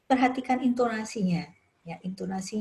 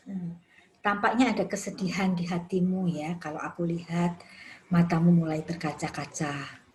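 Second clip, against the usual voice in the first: gentle counselor voice; 2 semitones lower than usual. Shown as a demonstration. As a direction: ease into it as if comforting someone who is about to cry. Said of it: "Ya, misalnya begitu".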